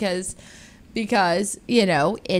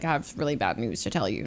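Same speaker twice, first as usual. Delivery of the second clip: grave news; 11 semitones lower, 8 dB quieter, faster than usual. Retold or imitated. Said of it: "he's like".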